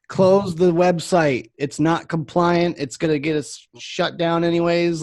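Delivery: staff's mildly exasperated protest; exasperated urging. Retold or imitated. Staff arguing with boss, retold.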